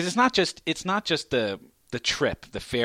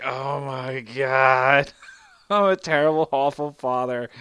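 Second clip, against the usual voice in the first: guilty dad; 5 dB louder, slower than usual. Retold or imitated. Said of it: "and I'm like".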